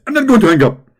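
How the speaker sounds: high, loud preachy mimic; Zakir Naik. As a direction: lecture like an excited preacher. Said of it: "Zakir Naik".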